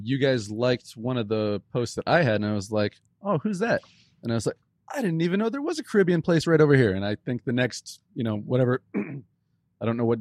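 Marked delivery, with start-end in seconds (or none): 3.2-3.8 higher-pitched, acted-out curiosity; curious surprise. Retelling first curious discovery. 4.9-6.9 higher-pitched mock amazement, easing down; acting out a happy discovery; retold surprise. Retelling surprise at finding place.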